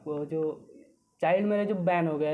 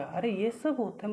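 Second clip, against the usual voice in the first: mildly shocked question, pitched higher; a touch of disbelief, higher voice; retold shock; 4 semitones higher than usual. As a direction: re-enact your own surprised reaction, lightly. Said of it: "तो मैं shock हो गया".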